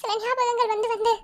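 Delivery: on the verge of crying; holding back tears. Acted. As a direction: fight the urge to cry as you confide. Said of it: "அழுக கூடாதுன்னு தான் நினைக்கிறேன், ஆனா முடியல sir". (அழுகையை அடக்கிக்கொண்டு)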